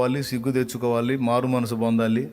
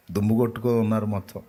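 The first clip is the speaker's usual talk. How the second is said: ordinary talk, nothing marked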